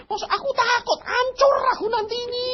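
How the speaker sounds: high, tearful cry of fear. Retold or imitated. Preacher cries out in terror to an angry God. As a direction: wail it out, terrified of being crushed. Terrified before God's anger.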